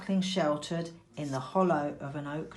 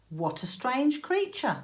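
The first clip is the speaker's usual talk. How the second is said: horse voice; 6 semitones higher than usual. A narrator's reading. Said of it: "said the horse".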